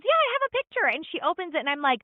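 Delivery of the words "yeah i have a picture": much higher, lightly voiced daughter; a hint of the eager daughter, pitched up; imitating daughter. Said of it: "she goes".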